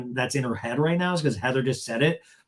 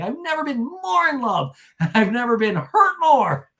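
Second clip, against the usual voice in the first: high, overwrought mock declaration; hammed-up heartfelt wail; 9 semitones higher, 5 dB louder than usual. The speaker declaring her love and hurt, mock anguish. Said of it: "it's really comical".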